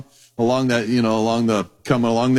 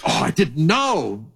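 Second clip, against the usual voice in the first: mock shocked God. God pretending surprise to the angels, mock shocked. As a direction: play innocent astonishment, tongue in cheek. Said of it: "act shocked".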